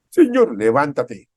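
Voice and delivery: loud, slow order to rise; loud command. Acted. Preacher thunders God's order to the congregation. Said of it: "Es una orden".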